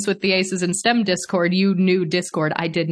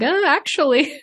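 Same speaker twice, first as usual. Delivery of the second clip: hesitant second thought; 10 semitones higher than usual. Acted.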